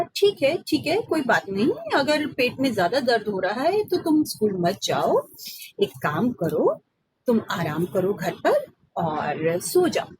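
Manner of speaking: soothing mother, softening at the end; lovingly coaxing. Acted. Mother soothes Ram about his tummy, tender. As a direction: comfort a sick child. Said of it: "बड़े ही प्यार से पुचकारते हुए कहा".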